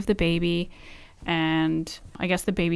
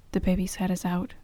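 softer, unbothered retelling; calm, matter-of-fact; 5 dB quieter than usual. Retold or imitated. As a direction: report it as coolly as she did. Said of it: "like, so chill".

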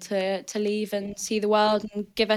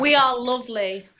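laughing through the words; laughing as she defends Northerners; 4 semitones higher, 7 dB louder than usual. Real, not acted. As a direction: giggle while insisting.

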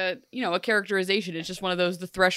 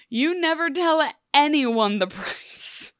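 slow, higher, emphatic telling-off; mock scolding; 7 semitones higher, 4 dB louder than usual. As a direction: lecture him, landing each word hard. Acting a scolding of Rumple.

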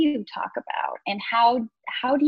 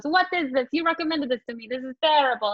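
higher-pitched imitated grumbling diner; mock complaint; 4 semitones higher, faster than usual. Diner complaining to the waitress who recommended it, mock indignant. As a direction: play a put-out customer, lightly hammed up. Husband's complaint about the food, retold.

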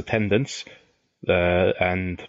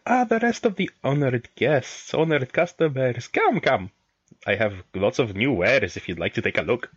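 merchant voice; 3 semitones higher than usual. Acted. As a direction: greet them like an eager trader. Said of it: "O P claps his hands together".

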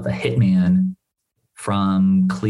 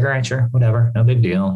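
chill; 4 semitones higher than usual. Retold or imitated. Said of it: "the guy takes it very, very chill".

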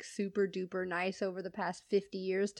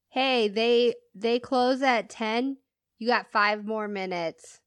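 calling out; 5 dB louder than usual. Retold or imitated. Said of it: "he yells at his daughter".

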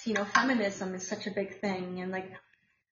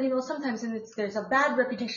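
put-on Russian accent; faster than usual. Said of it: "with a fabulous Russian accent".

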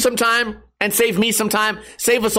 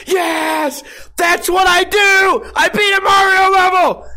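high, loud, slow triumphant yell; mock victory shout; 9 semitones higher, 4 dB louder, slower than usual. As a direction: gloat over beating the level. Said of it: "then going".

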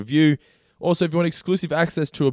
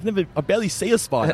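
retelling it quickly through a laugh; quick, amused and laughing; 5 semitones higher, faster than usual. Retold or imitated. Retells his reply to in-laws.

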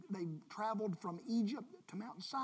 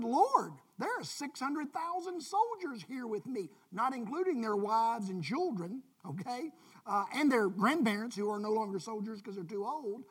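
Moses protesting; 6 dB louder than usual. Pretend. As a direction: push back at God in disbelief.

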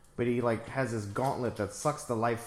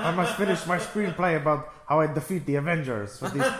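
hammed-up frantic villain voice, louder on laptop; mock villain whine; 3 semitones higher, 4 dB louder than usual. Friends riffing on the villain, mock frantic whine. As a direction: play the fussy supervillain hunting his laptop. Mocking villain voice in movie commentary.

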